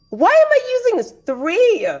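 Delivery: high laughing disbelief. Real, not acted. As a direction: laugh through the words at the bad roll. Player laughs at bad roll.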